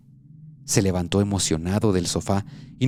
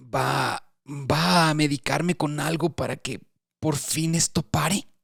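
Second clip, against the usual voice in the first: slow, higher, hesitant plea; anxious plea; 5 semitones higher, slower than usual. Acted. Patient anxiously asks the doctor for medicine, slow and pleading. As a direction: ask it hoping and afraid of the answer. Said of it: "Andrés me miraba ansioso".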